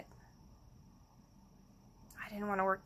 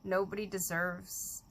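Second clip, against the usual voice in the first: hushed grief; 7 dB quieter than usual. Real, not acted. Mourning her friend Phyllis, a soft grieving whisper.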